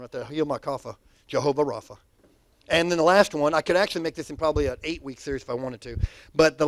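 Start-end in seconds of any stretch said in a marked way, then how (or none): 0.3-2.0 put-on old school preacher. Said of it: "That's old school right there, Pastor Don".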